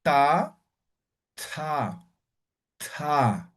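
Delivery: "ta" with a puff of air after the t; aspirated ta. Shown as a demonstration. Teacher showing the class the aspirated T, a breathy "ta". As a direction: breathe out hard on "ta". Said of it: "Y la T también".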